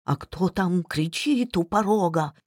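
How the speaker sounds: a hint of a creaky old father; lightly voiced frail old man. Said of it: "старческим голосом продолжала кухарка".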